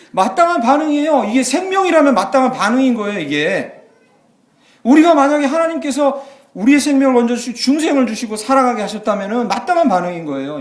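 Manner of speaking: loud, high, laughing sermon cry; full-force preaching. Acted. Pastor proclaiming to the congregation, loud preaching. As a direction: preach it with joy.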